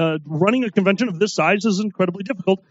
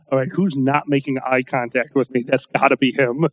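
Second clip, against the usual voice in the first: muttered low aside; 8 semitones lower than usual. Retold or imitated. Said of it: "I'm like".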